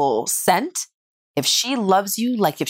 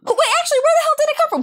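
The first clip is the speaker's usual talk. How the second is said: sudden suspicion; much faster than usual. Real, not acted.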